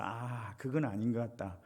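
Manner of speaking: 1 delighted realization. Retold or imitated. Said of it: "이런 생각이 딱 드는 거예요".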